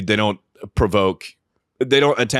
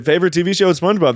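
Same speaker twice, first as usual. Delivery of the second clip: mocking disbelief; 8 semitones higher, much faster than usual. Mocking repeat of the friend.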